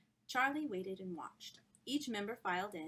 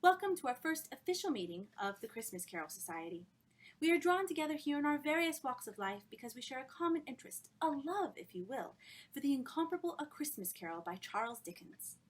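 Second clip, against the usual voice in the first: louder, eager formal welcome; enthusiastic hostess speech; 5 semitones higher, 4 dB louder than usual. Acted. Miss Dartmoor opening the first meeting, eager and loud. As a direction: sell the society with gushing zeal.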